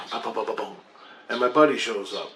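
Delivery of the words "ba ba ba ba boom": quick soft run of knock syllables; imitated door knock. Telling of a knock at the door, imitated knocking. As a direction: mimic knocking with your mouth, softly. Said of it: "there's a knock on the door".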